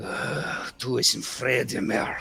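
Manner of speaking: slow, rough growl through gritted teeth. Speaking in character while looking over at Jack: growled through gritted teeth. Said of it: "with gritted teeth and say".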